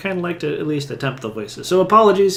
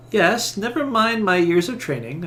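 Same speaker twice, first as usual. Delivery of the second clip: indignant; 6 semitones higher, 3 dB louder than usual. Acted. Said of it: "She glares at him".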